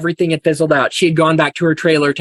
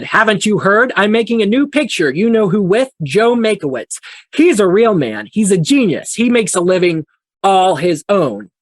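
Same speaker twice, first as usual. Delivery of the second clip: mildly raised, mock-taunting delivery; retold angry taunt; 3 semitones higher than usual. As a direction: lightly act out her boasting jab at him. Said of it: "very angry at him at this point".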